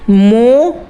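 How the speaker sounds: मो held long as a syllable on its own; broken into syllables. Shown as a demonstration. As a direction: stretch the vowel of मो, isolated. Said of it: "इसको तोड़ के देखना है". (मो को अलग करके, लंबा खींचकर)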